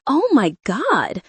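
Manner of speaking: sudden slow panicked scream. Acted. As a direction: cry out in shock as leaves hit. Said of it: "she screamed".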